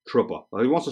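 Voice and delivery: "Trooper" with a New York dropped R; New York accent. Retold or imitated. Echoing the kid's spelling, New York accent. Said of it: "That's how they say it up in New York".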